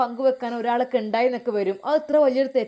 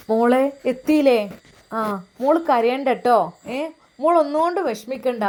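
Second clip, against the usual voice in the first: louder, calling down the phone; 4 dB louder than usual. Acted. Mother phoning her daughter, loud call. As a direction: call out to the daughter on a bad line.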